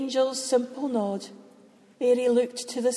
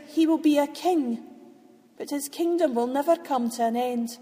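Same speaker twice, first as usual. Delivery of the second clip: a lightly voiced angel trying to sound cool, pitched up; forced calm angel; 3 semitones higher than usual. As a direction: angel talking fast to reassure, lightly played. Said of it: "trying to sound cool as a cucumber".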